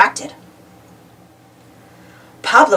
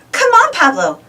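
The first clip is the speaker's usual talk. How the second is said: calling; 8 semitones higher than usual. A narrator's reading. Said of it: "called Uniqua".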